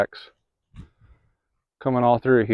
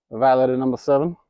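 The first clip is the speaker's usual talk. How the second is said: coy voice. Pretend. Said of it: "That was my coy voice".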